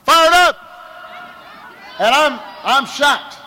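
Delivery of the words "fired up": sudden high chant cry. Retold or imitated. Voice from behind startling the candidate, crying out. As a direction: call it out higher, like a rallying cry. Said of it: "hear this voice cry out".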